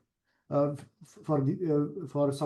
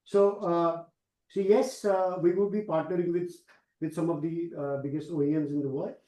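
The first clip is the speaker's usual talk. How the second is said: starts raised, then settles to normal volume; speaking up. Real, not acted. Executive repeating his answer after being asked, speaking up. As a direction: project so they can hear you. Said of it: "Yeah, better now".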